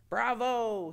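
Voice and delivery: put-on hearty Russian accent cheer. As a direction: exclaim it in a thick Russian accent. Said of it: "he exclaims in a thick Russian accent".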